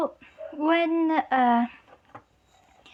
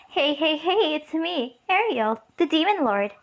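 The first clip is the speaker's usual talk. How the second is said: lightly acted, sing-song self-introduction; playful Demon Lord greeting; 3 semitones higher than usual. Ariel crashes in and introduces herself, playful greeting. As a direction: announce yourself with a playful lilt. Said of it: "doing the peace sign ... and saying".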